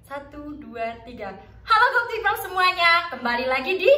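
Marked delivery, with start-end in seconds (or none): 1.6-3.9 higher, louder, unhurried cheerful welcome; slow cheerful greeting. Shown as a demonstration. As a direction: greet warmly and take your time. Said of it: "tapi pelan-pelan aja".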